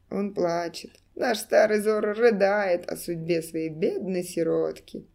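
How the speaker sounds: raspy, crow-like jeer; croaking clown. Acted. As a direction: caw it like a mocking crow. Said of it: "хриплый голос клоуна ... карканье ворона".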